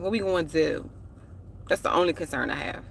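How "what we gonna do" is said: lightly put-on DMV accent; fake DMV accent. Repeating the question for viewers, in fake DMV accent. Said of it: "That was my fake D M V accent".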